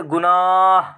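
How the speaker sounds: गुनाह ending on a clearly breathed ह; sounded final h. Shown as a demonstration. Teacher showing students the sounded h. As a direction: let the h at the end of गुनाह be heard. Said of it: "गुनाह इस तरीके से पढ़ते हैं".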